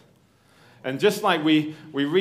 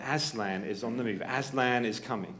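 hushed, softer rumour of Aslan; whisper; 2 semitones lower, 6 dB quieter than usual. Acted. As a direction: breathe it like a secret passing round. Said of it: "This whisper".

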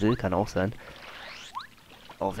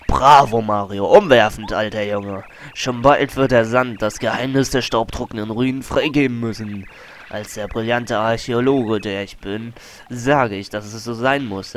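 big booming praise; loud vain explorer; 4 dB louder than usual. Acted. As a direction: puff up like a famous archaeologist. Colorado praising and boasting.

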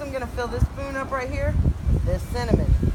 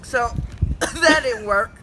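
coughing fit; slower than usual. Real, not acted. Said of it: "This is burning all up".

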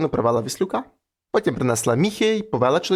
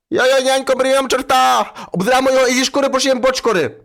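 put-on high, loud, excited kids' clamour; noisy children; 7 semitones higher, 4 dB louder than usual. Ragged children shouting gleefully at their father about the devil. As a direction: shriek it like wild excited kids. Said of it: "Почали галасувати".

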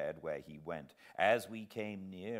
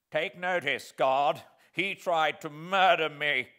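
frightened appeal; 7 semitones higher, 9 dB louder than usual. Acted. Bruised convict appeals to guard.

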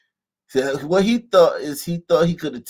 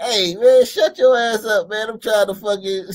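imagined telling-off; 6 semitones higher, 5 dB louder than usual. Retold or imitated. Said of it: "I was like".

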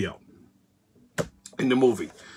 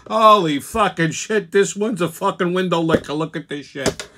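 mocking impression. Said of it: "He opened his mouth and went".

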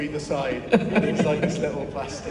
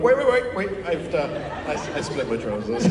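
panicked stop; 5 dB louder than usual. Retold or imitated. Actor stopping take, panicked.

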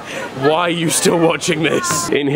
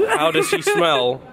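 high joke voice. Pretend. Joke punchline voice.

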